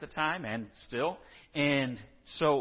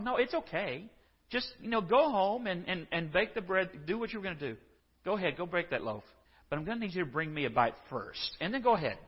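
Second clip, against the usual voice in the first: sweetly offer, then ask for more; gracious tone; 4 semitones higher than usual. Retold or imitated. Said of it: "he says in this gracious tone".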